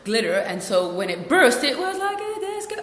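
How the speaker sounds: breezy mock-cheerful report; nonchalant. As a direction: recount it airily, as if it were lovely. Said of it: "it was all nonchalantly like".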